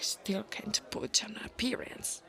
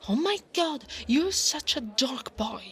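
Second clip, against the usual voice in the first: mocking tease; 4 semitones higher, 3 dB louder than usual. Teasing the boy as a dork.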